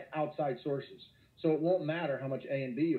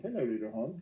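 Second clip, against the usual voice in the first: cutesy greeting; 4 semitones lower than usual. Acted. Teacher greeting the tiny hump.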